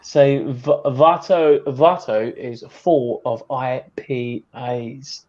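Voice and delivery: slow, drawn-out British delivery; strong British accent. Shown as a demonstration. Guest teasing absent Vato, slow British accent. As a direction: spell it out slowly in British. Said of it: "strong British accent".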